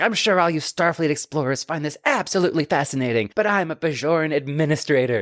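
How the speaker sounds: acted self-important, proud, indignant, fed-up tone. Recapping a TV episode, quoting a character's complaint, in a mock-proud delivery. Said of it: "she says proudly".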